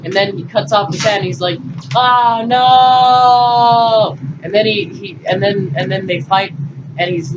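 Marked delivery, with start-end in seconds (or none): 2.0-4.2 mock shout. Luke's cry as hand is cut.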